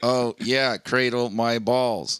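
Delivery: flat computer speech voice; a hint of a robotic synthesizer. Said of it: "in his robotic voice".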